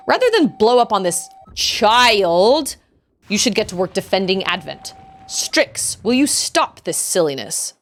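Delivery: stern British officer reprimand; British accent. Acted. Officer tells Strix to stop the silliness, British accent. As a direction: scold in a theatrical British accent. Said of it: "I'm doing British accents".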